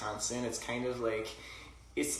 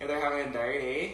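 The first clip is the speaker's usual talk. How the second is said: mock Canadian hockey talk; Canadian hockey-slang accent; 2 semitones higher than usual. Shown as a demonstration. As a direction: toss it off like a Canadian hockey player. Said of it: "if you throw in the hockey slang".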